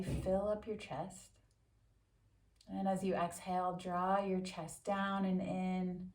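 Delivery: calm, measured meditation voice with long pauses; guided meditation. Acted. Yoga teacher settles listeners into a quick seated meditation, calm guided-meditation delivery. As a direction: guide them unhurriedly, leaving space after each instruction.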